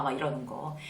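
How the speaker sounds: ordinary talk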